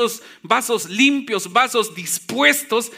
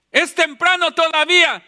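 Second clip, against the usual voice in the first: slightly hammed-up excuse, pitched higher; mock excuse; 5 semitones higher than usual. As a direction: act out a reluctant churchgoer's protest. Preacher acts out congregants' excuses. (excusa fingida, en tono más agudo)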